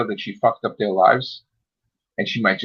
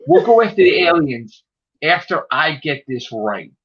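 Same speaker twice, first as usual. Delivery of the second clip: loud mock declaration; 5 semitones higher, 4 dB louder than usual. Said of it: "He's like".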